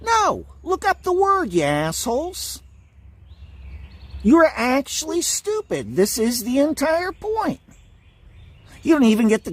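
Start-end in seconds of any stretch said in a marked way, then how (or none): 0.1-2.6 high, exasperated shout of NO; angry outburst. Real, not acted. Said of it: "This is what I am angry about". 4.2-6.0 angry. Real, not acted. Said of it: "This is what I am angry about".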